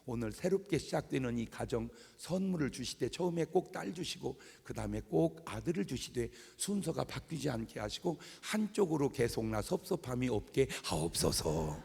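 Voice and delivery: softly recited officiant's prayer; wedding prayer. Retold or imitated. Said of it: "내가 해주는 기도가 있어요".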